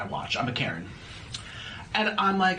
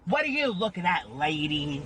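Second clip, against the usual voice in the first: sassy confrontation. Pretend. Confronting a lady, put-on.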